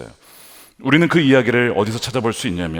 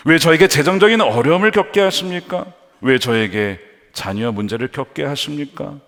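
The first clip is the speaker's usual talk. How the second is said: acted indignant complaint to God; 3 semitones higher, 4 dB louder than usual. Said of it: "나중에는 분노로 발전할 수도 있어요". (하나님께 따져 묻듯 원망조로)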